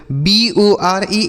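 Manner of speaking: एन ओ एस ई, every letter spaced and drawn out; slow letter-by-letter spelling. Shown as a demonstration. Teacher spelling a word slowly for children, slow and spaced. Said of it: "इसे पढ़ेंगे बोर".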